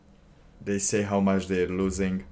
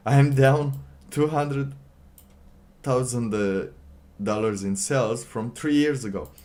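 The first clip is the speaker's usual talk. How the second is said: mock whiny owner; 4 semitones higher, 4 dB louder than usual. Mocking store owner's lament.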